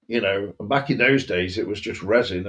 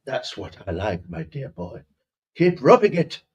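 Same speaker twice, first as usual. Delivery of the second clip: faux posh accent. Posh master urging his dear boy on, faux posh. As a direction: purr approval in mock-posh English. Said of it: "but faux posh".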